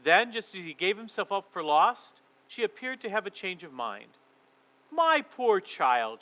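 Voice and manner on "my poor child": very slow honeyed queen; falsely sweet. Acted. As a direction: coo it with fake tenderness. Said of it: "she said in a quite different voice".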